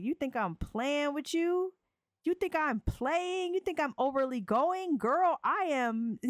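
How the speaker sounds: high, teasing insistent voice; a lightly voiced smooth talker; mock insistent lover. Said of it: "he's like".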